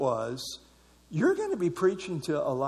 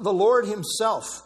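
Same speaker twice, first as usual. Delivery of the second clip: "Lord himself" drawn out and higher; stress on Lord himself; 4 semitones higher, 4 dB louder, slower than usual. Shown as a demonstration. Preacher underlining who comes in person, stressing "Lord himself". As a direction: lean slowly on "Lord himself". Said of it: "emphasizing him personally".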